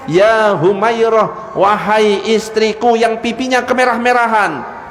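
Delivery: slow, drawn-out loving call; tender address. Acted. Husband lovingly calling his wife, slow and tender. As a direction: savour each word like a sweet nothing.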